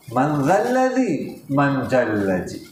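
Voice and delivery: slow, ذا الذی first, then جل جی with J; Mewati-style pronunciation. Shown as a demonstration. Teacher showing Mewati reading, Z becoming J in جل جی. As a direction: slowly turn the Z of ذا الذی into J, جل جی. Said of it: "زال کو جیم پڑھتے ہیں".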